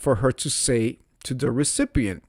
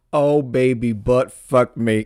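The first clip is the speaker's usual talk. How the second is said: mock sultry operator; 5 dB louder than usual. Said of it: "had the operator say".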